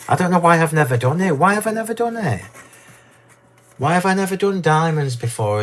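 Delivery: excited. Real, not acted. Gushing over new diamond dies.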